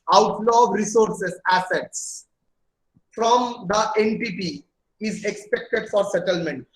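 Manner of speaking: each word spelled out slowly for notes; slow dictation. Acted. Teacher dictating a definition to students, slow and even.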